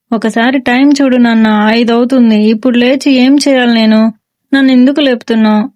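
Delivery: mildly whining son; whiny complaint. Acted. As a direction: complain like a sulky kid woken too early. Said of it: "ఏడుపు మొహం పెడతాడు".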